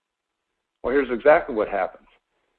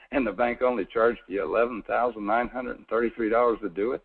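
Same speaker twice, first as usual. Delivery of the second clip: dry, understated sarcasm about the bank's charge; sarcastic; 3 semitones lower, 5 dB quieter than usual. Acted. Seminar host to homeowners, mildly sarcastic about the bank. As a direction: let a little sarcasm creep into the figure. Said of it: "if you heard a little sarcasm in my voice".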